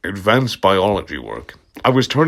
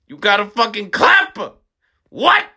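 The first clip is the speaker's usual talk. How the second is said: pitched way up, shrill disbelief; high squeaky outburst; 10 semitones higher than usual. Acted. Villain squeals at the shooters, high and incredulous.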